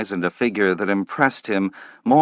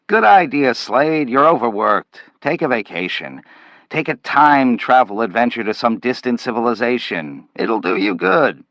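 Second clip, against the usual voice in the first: hearty boss; 2 semitones higher than usual. Acted. Boss sending Slade on vacation, hearty and booming. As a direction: clap him on the back with your voice.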